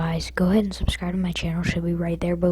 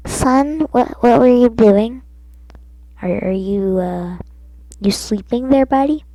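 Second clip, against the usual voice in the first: loud, high worried mother; mom voice; 4 semitones higher, 11 dB louder than usual. Retold or imitated. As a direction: call out like a concerned mom. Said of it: "were you just asking him, like".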